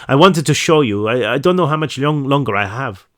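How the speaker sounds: lightly attempted Swedish accent. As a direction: try a slight Swedish accent. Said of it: "supposed to be like a Swedish accent".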